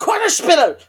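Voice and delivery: loud, high mock-German outburst; German accent. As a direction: belt it out like a shouted German word. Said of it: "you can do a good German accent".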